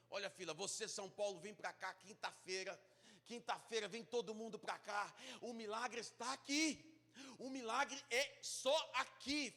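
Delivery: imitação de pastor de TV, arrastando cada vez mais; pregador de TV. Retold or imitated. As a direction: imite um televangelista, subindo o tom até o clímax. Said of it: "tinha um pastor moreno pregando". (pregador de televisão imitado, crescendo devagar)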